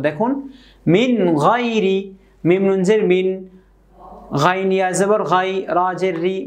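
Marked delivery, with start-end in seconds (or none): 0.9-2.0 slow "মিন গাইরি" with a clear n in মিন; clear, no ghunnah. Shown as a demonstration. Teacher showing learners the rule, "মিন গাইরি" slow without ghunnah. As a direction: recite "মিন গাইরি" slowly, n not hummed. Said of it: "গুণনাবিহীন সুন্দর করে উচ্চারণ করে পড়ব".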